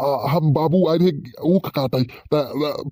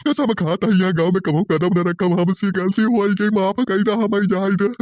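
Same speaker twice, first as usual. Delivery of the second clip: higher, begging voice; raised pleading tone, a hint of panic; 5 semitones higher than usual. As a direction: beg the villagers to let you go. Caught boy begging for mercy.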